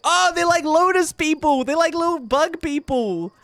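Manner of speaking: high, excited wonder; delighted. Real, not acted. Delighted discovery in game.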